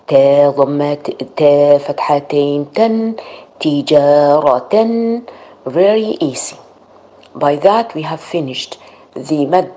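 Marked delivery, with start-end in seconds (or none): 3.6-5.2 تجارة with tanween, slow and clear; slow model word. Shown as a demonstration. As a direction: finish تجارة slowly with the nunation. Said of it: "full word after spelling".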